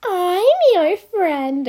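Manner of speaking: slow, high breathless declaration. Acted. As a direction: say it breathlessly, smitten. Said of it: "I said breathlessly".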